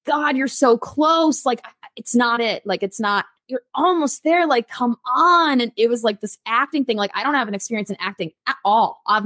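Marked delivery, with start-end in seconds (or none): 0.1-5.6 mildly exasperated, higher-pitched imitation of a director; retold frustrated coaching, lifting in pitch. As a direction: stretch the words out slowly, pleading for more.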